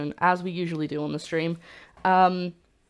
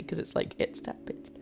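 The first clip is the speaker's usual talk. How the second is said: whispering; 9 dB quieter than usual. Real, not acted. Muttering over donor name.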